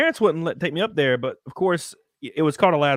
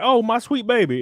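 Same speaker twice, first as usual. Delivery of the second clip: high, cooing grandma voice; grandma gushing over her grandson, high and cooing; doting grandma; 8 semitones higher, 4 dB louder than usual. Retold or imitated. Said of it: "She'd be like".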